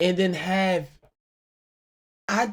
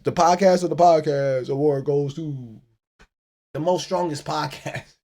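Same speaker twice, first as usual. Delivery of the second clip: slow, grand mock presenter voice; mock award announcer; 3 dB louder than usual. Host parodying an awards announcer, slow and grand.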